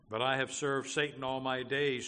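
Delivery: loud, driving objection; forceful confession thrown back as protest; protesting sinner. Acted. Sinner's objection in quoted dialogue.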